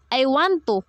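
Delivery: mildly insistent, pitch lifted. A narrator's reading. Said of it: "he insisted".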